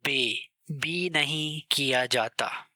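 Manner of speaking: बे said with an e vowel, set against बी; बे slowly, then the wrong बी; German letter name. Shown as a demonstration. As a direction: stress बे as bay, not bee. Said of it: "इस letter को बे pronounce किया जाता है".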